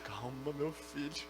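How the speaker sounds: soft, low soothing reply; calming pastor. Acted. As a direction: quietly settle down a wailing member. Pastor soothing a wailing member. (pastor acalmando, voz baixa)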